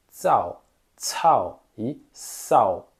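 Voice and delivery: tsao, tsao, sao with the tongue flat; Mandarin zao cao sao. Shown as a demonstration. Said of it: "deixar a língua plana".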